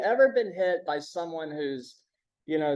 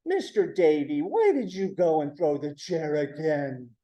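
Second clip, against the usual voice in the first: put-on talking down as if to a child; patronizing. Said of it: "You talk down to them like they're a child".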